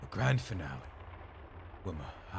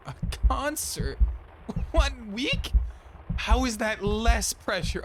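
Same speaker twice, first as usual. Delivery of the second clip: much higher, louder panicked cry; panicked outburst; 4 semitones higher, 7 dB louder than usual. Pretend. Wilma panicking at Arthur's concert news, loud and high. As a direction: shriek at the impossible deadline.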